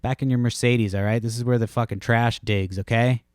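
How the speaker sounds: imitating himself running her off, half-joking gruff scold; mock tough-guy retort. Telling the Mercedes lady to get back in her car, mock angry. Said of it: "I was like".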